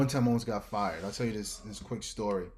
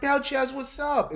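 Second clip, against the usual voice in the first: cheery greeting; 6 dB louder than usual. Retold or imitated. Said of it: "She be like".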